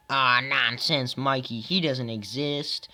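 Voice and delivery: lightly voiced, slow scoffing reply; dismissive movie character. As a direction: draw it out as a mild mock dismissal. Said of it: "stop with the impressions".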